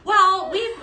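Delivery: high and loud through a laugh; host laughing about tearing down Christmas decor. Real, not acted. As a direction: laugh it out, amused at yourself. Laughing about aggressive decor removal.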